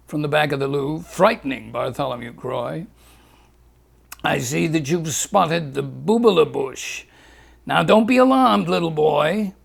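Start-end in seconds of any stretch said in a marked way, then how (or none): 4.2-9.5 Doctor Leguise. Acted.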